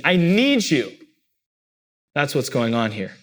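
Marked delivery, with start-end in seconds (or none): 0.0-1.0 mildly more urgent, pressing on need; urgent plea. Retold or imitated. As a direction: ask as if you truly need them. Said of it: "really urgently asking".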